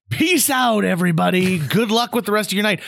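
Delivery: high, sing-out goodbye; imitated triumphant send-off; gleeful farewell. Lucky customer's gleeful farewell.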